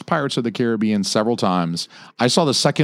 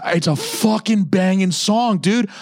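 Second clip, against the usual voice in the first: gushing about the song, pitched way up; excited; 9 semitones higher, slower than usual. Real, not acted. Friend raving to friend about a movie song, high and excited. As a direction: rave about it like a hyped fan.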